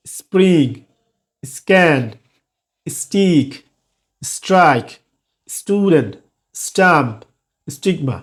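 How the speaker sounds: no puff on T in "স্টিক"; unaspirated after S. Shown as a demonstration. Teacher listing examples of the S rule, unaspirated stops. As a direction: keep the stop after S breathless, as in "স্ক্যান". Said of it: "aspiration হবে না".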